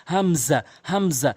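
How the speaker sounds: হামজা said short, from the start of the throat; hamza from the throat. Shown as a demonstration. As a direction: say হামজা without any stretching. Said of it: "হলকের শুরু থেকে এভাবে উচ্চারণ করবেন".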